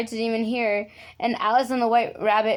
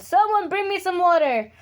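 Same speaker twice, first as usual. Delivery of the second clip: high, louder desperate plea; frantic call for water; 9 semitones higher, 4 dB louder than usual. A narrator's reading. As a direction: beg for water with a burning mouth. Queen burning from spicy lollipop.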